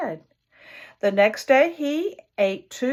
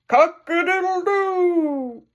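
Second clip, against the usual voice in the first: high, slow full rooster crow; the rooster shows how it's done; real rooster crow; 9 semitones higher, 4 dB louder, slower than usual. Acted. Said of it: "Now listen to me".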